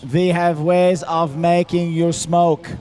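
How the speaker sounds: slow, menacing mock villain voice; cool foreign spy menace. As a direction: purr it like a movie spy villain. Mock German villain line.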